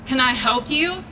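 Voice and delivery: firm, no-nonsense challenge across the lawn; mild mock-stern call to a stranger; best bossy voice. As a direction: sound like a mother not to be messed with. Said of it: "in my best bossy voice".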